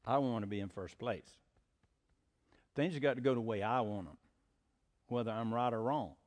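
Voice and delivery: low, quiet voice of self-will; self-willed insistence. Acted. Preacher voicing the nature of sin, quietly self-willed. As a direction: drop low and soft, acting out stubborn self.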